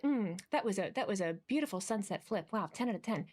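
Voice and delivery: low, subdued polite appreciation; mock reserved. Mocking how critics want a wrestling fan to react, mock reserved. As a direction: play it sarcastically cute and contained. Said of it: "cute and reserved".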